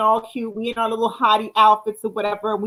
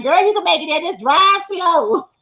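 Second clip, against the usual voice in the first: lightly mocked reassurance, pitched up; imitating dismissive friend; 4 semitones higher than usual. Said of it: "You be like".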